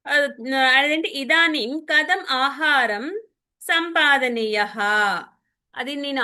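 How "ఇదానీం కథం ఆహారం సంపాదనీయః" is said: slow Sanskrit recitation. Acted. Teacher reads the Sanskrit story line slowly to her student. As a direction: read each Sanskrit word out slowly and carefully.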